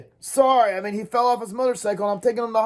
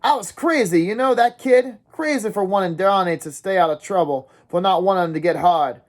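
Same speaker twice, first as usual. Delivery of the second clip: high, urgent ranting to a dazed friend; raving rant; 6 semitones higher than usual. Acted. Dally raving at Ponyboy in the car, high and urgent. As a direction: spill it all out feverishly. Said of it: "kept raving on and on".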